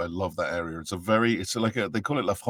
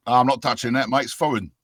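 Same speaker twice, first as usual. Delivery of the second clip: English bloke; 4 semitones higher, 7 dB louder than usual. Retold or imitated. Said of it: "the English looked at my name and went".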